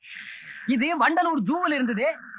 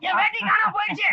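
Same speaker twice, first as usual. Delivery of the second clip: panicked yell; 5 semitones higher than usual. Acted. Panicking over his lost veshti.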